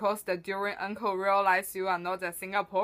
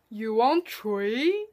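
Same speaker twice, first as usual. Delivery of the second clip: auntie voice; slower than usual. Acted. Auntie mishears customer.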